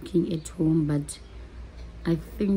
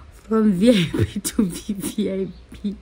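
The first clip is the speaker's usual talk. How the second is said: excited; 3 semitones higher, 4 dB louder than usual. Real, not acted. Excited build through ticket upgrades.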